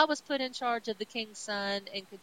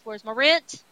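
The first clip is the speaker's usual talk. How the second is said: demanding landlord; 10 dB louder than usual. Retold or imitated. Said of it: "here comes the landlord with".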